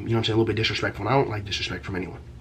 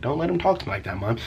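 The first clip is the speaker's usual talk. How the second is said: put-on higher-pitched teen complaint; retold protest to a parent, pitched up; indignant protest; 3 semitones higher than usual. Acted protest to his mom.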